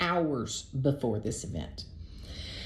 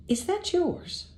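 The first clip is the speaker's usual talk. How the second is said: very high, slow, pointed question; incredulous question; 14 semitones higher, slower than usual. Retold or imitated. Host asks her date about the toothbrush in her bathroom, incredulous. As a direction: draw it out high in mock disbelief.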